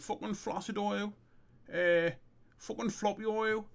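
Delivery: high-pitched character chant; acted incantation. Character trying out commands on his mate's problem, high incantation. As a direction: call out each command high, in short bursts.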